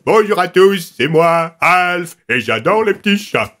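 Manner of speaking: Alf voice. Retold or imitated. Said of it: "faire la voix de Alf".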